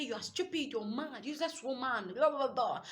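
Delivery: imitating a husband hurling insults; insulting husband. Voicing a man's insults in a fight.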